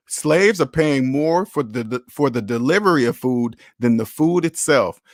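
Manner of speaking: slow, deliberate restatement; slow emphatic repeat. Shown as a demonstration. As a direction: lean on "Slaves" and "delivery", slowly. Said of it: "Let me say that one more time".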